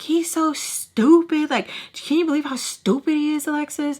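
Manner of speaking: high, scornful mother voice; imitating her mother's contempt; mock scornful mom. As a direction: lightly play mom sneering at him. Mom mocking dad.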